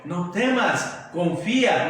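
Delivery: gentle comfort. Retold or imitated. Jesus comforts the father.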